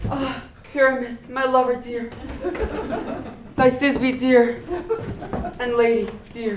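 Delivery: squeaky little voice for Thisbe; lightly put-on monstrous little voice; tiny monster voice. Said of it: "monstrous little voice".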